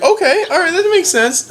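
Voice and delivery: mock gullible. Mock-credulous lords quoted laughing.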